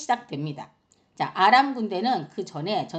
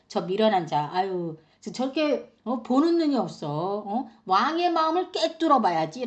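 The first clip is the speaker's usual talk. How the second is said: lightly acted sneer at a fool; a touch of tut-tutting derision; scornful mockery. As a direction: scoff like a disdainful rival, rising at the end. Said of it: "라고 하면서 비웃었겠죠".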